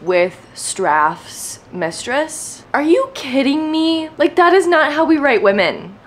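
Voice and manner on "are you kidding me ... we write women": higher, incredulous outburst; higher, indignant rant. Real, not acted. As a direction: let the outrage rise. Ranting about book's female character.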